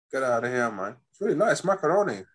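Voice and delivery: badly faked American accent; joky, unsteady put-on American accent; wandering American accent. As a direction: attempt an American accent and let it drift. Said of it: "I don't know where this accent's going".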